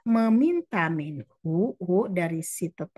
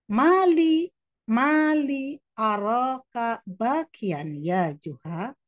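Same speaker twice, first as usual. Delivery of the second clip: neighbour asking; 5 semitones higher, much slower than usual. Acted. Neighbour asks crying Juha.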